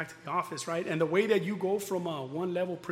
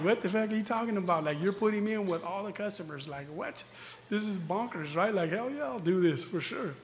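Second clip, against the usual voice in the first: laughing disbelief; 4 semitones higher than usual. Retold or imitated. Retold disbelief at being made leader.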